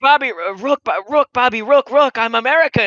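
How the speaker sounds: high, stumbling put-on voice; mock American voice. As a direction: fumble the names like a parody.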